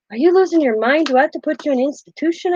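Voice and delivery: teasing high-pitched "are you crazy"; mock alarm. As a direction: tease him like he's lost it. Mock-scolding husband for talking.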